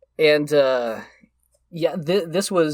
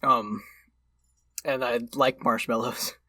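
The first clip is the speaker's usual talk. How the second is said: mouth full. Real, not acted. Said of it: "I'm gonna talk with my mouth full".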